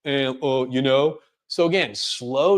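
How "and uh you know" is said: imitated hesitant stumbling; demonstrating a halting, lost speaker; filler words. Shown as a demonstration. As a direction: stall with spaced-out "uh"s. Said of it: "That's when you have filler words".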